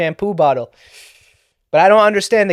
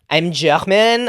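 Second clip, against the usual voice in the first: put-on German accent; much slower than usual. Shown as a demonstration. Comedian testing out the accent after failing at Dutch, mock German accent. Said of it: "No, that's German".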